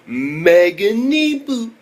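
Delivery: loud, drawn-out, rising title shout; hyped title announcement. Real, not acted. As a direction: stretch the show's name out big and high.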